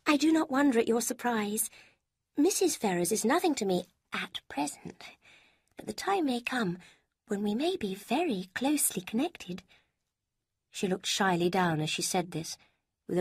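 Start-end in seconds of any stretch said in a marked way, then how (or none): 0.1-9.6 a higher, lighter voice for Lucy; Lucy, higher voiced. A narrator's reading. Lucy quizzing Eleanor about Mrs Ferrars, higher voice. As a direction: lift the pitch for the young woman Lucy.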